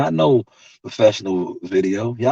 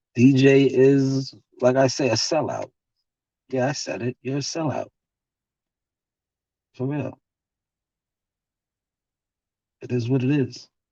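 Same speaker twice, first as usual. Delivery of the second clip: calm, unhurried, even, smooth delivery; 2 semitones higher than usual. Speaker addressing DJ directly, nice and smooth. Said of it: "Look how I said that nice and smooth".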